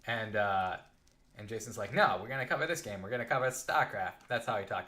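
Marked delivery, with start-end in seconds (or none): 1.9-4.3 lightly voiced old-timey villain, a touch of menace; a hint of a moustache-twirling villain overruling an idea. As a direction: boss shutting down a worker's idea, faintly villainous. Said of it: "He talked like this, like an old-timey villain".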